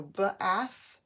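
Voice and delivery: "bath" broken into b, then ath; tapped-out sounds. Shown as a demonstration. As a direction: sound out "bath", first consonant apart. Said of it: "two letters that make one sound".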